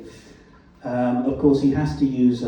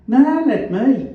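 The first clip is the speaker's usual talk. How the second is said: high, loud, slow Black Country; drawn-out Black Country offer, pitched right up; Black Country accent; 14 semitones higher, 8 dB louder than usual. A narrator's reading. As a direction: cut in with broad Black Country vowels. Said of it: "His black country accent was as vowelish as ever".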